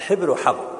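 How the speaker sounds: "حبر وحبر" as hibr then habr; two vowelings. Shown as a demonstration. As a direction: say "حبر وحبر" with i in the first, a in the second. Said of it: "يقال". (نطق "حبر وحبر" بالكسر ثم بالفتح)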